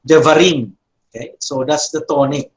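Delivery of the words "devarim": accent on the "rim" of devarim; stress on final syllable. Shown as a demonstration. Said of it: "the accent is in the rim".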